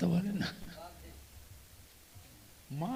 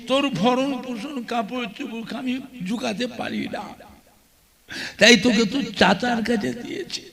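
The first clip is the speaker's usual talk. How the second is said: tearful mother. Acted. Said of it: "মা কেঁদে কেঁদে বলে".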